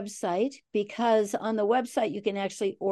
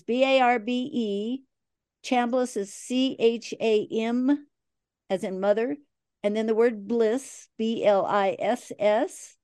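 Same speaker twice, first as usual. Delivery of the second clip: spelling it out. Shown as a demonstration. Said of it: "do I spell it out".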